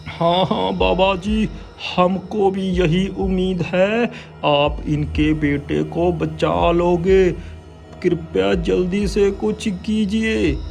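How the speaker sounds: high earnest plea; hopeful pleading villager. Acted. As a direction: urge him to hurry. (विनती करता गांववाला)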